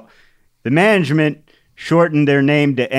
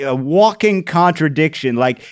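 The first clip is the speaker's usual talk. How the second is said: usual speaking voice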